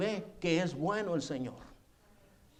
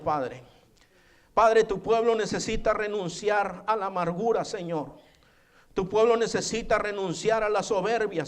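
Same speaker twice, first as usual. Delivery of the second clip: fervent prayer; 3 semitones higher than usual. Real, not acted. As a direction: plead earnestly with God, gaining intensity phrase by phrase. Leads the congregation in prayer.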